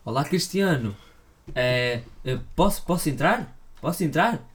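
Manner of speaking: high eager voice, rising pitch; Pepe impression. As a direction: play a nervous, fawning Pepe. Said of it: "eu imagino o Pepe tipo".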